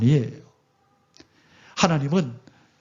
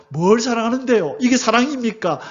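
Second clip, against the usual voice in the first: higher, mildly defiant talk-back; defiant challenge; 6 semitones higher than usual. Retold or imitated. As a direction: push back at God, half-mocking. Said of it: "라고 덤비는 거예요". (살짝 대드는 말투)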